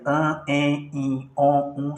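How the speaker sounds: An, en, in, on, um sounded partly through the nose; nasal vowels. Shown as a demonstration. Teacher illustrating nasal sounds to students, nasal vowels. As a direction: let each vowel resonate in the nose. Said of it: "sai parte do som pelo nariz".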